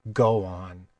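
low, gentle urging. A narrator's reading. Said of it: "more gently".

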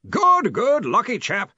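loud, high, hearty interruption; yelling. A narrator's reading. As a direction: cut in with a cheerful yell. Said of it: "Ridcully yelled".

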